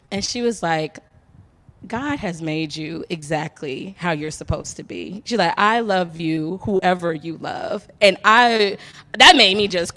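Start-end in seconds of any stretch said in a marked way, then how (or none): 1.9-7.9 tender reassuring mom. Retold or imitated. Accepting mother reassures daughter.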